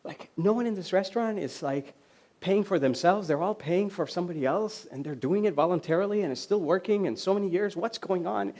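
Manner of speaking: hushed mock bewilderment; confused. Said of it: "this guy's very confused".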